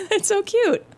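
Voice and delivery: high-pitched retold coo; tickled, sing-song reaction; cooing delight. Retells own delighted reply to therapist.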